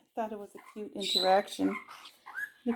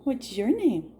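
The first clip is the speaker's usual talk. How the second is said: prompting. Shown as a demonstration.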